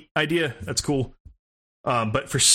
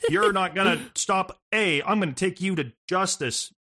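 mocking Ronda Rousey; 5 semitones higher than usual. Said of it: "how the fuck she talks".

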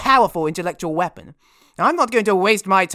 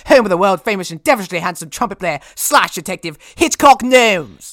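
grandiose; 5 dB louder than usual. Acted. Grand self-announcement.

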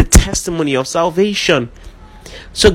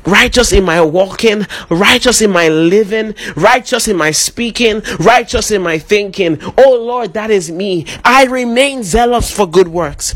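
1 leading prayer. Acted. Congregation led into spoken prayer.

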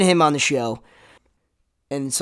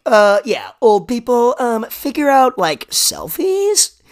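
mock hack comic; 7 semitones higher, 5 dB louder, slower than usual. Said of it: "we're all like".

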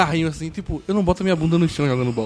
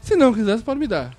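mock charming flirt; 3 semitones higher, slower than usual. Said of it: "jogou um charmezinho".

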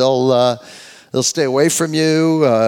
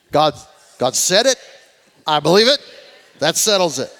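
lightly put-on Southern nineteen-fifties accent; 3 dB louder than usual. Shown as a demonstration. Preacher leading the congregation in an old saying, Southern fifties accent. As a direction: lean a little into an old-time Southern accent. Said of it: "say that in your best Southern nineteen fifties accent".

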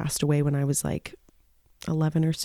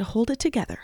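self-coaxing; 6 semitones higher, faster than usual. Real, not acted. Telling herself not to cry.

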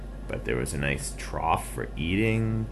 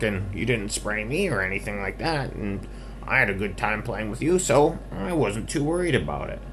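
lightly voiced, higher piggy; reassuring pig; 4 semitones higher, 3 dB louder than usual. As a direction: reassure a friend as a storybook pig. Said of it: "the pig said".

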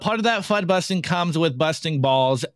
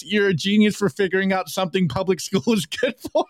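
laughing while reading; 2 semitones higher than usual. Real, not acted. Reading a funny meme aloud.

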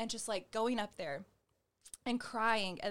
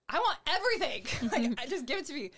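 eager; 5 semitones higher, 6 dB louder than usual. Retold or imitated. Eager retold answer.

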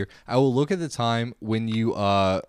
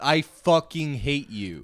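staged anger; 4 semitones higher, slower than usual. Acted. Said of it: "just really fucking just going in on each other".

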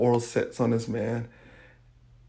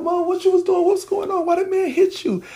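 high-pitched, louder burst of questions; retold frantic questioning; 4 dB louder than usual. Frightened child questioning hurt mom, retold frantic questioning. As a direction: reenact a distraught child demanding answers.

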